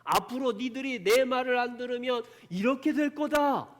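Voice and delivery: high, loud prophetic warning; God's warning. Retold or imitated. God foretelling punishment to Israel, loud high warning. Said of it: "하나님이 예언을 했어요".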